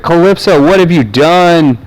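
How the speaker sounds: guy on the ground yelling at Calypso, mock anguish; retold yell. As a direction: call out the name in a hammed-up anguished yell. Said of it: "he's, like, yelling at Calypso".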